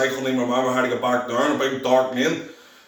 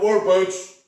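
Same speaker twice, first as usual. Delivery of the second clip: higher, lightly called question; raised over noise; 7 semitones higher, slower than usual. Retold or imitated. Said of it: "in the loudness and echo".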